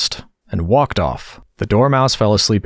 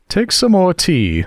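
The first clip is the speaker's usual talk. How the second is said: earnest; 10 semitones higher, slower than usual. Acted. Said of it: "very earnestly".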